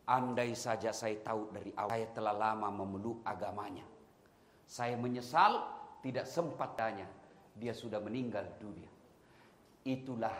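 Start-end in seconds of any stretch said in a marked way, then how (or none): 0.0-8.9 softer, low and sorrowful; tearful regret. Acted. Blind man mourning the Prophet, soft tearful regret. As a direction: say it as if tears are falling. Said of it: "Netes air matanya".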